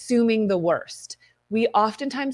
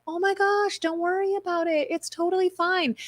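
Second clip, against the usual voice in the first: sugary, much higher, overly nice brush-off; fake sweet; 11 semitones higher than usual. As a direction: sing it sweetly while hiding the annoyance. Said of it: "a total passive aggressive bitch".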